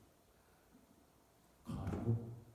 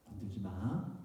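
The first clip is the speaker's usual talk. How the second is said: soft, understated threat; quiet warning; 2 semitones lower, 7 dB quieter, slower than usual. Retold or imitated. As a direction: play the big brother warning softly. Brother's short warning to bully. (나직하게 경고하는 형 흉내)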